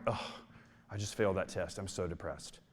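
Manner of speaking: soft, low, lightly mopey groan; a hint of a student's sulky whine; mock mopey student. Imitating college students who misuse the word, soft mopey whine. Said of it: "they're like".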